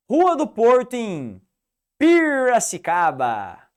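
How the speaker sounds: Piracicaba accent, retroflex R pulled hard, loud and high; strong Piracicaba accent, drawn out. Shown as a demonstration. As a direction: roll out Piracicaba with the Piracicaba R. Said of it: "Por que que eu puxei o R?".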